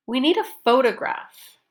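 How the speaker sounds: "photograph" stressed with a pitch jump and fall; focus stress. Shown as a demonstration. Teacher models a practice sentence, focus stress on "photograph". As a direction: lift and lengthen the first syllable of "photograph". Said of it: "pronounce it with the pitch change".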